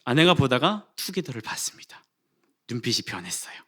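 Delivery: hushed, building suspense; suspenseful whisper. Real, not acted. Pastor telling the congregation his wife saw the ice cream, whispered. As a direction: whisper it like a tense moment.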